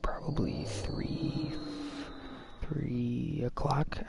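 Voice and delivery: slow hushed whisper, barely voiced. Telling friends about sneaking around at three, hushed whisper. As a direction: drop to a secret whisper as if others are asleep. Telling of keeping quiet late at night.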